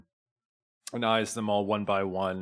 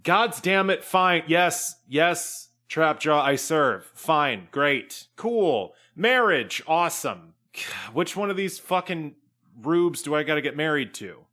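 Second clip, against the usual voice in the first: grudging; 4 semitones higher than usual. Acted. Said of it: "Talon says".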